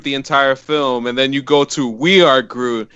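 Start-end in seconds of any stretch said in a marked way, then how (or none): 1.9-2.9 slow and heartfelt; slow heartfelt delivery. Shown as a demonstration. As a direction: let each word land with feeling. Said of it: "those three words gives you that type of feeling".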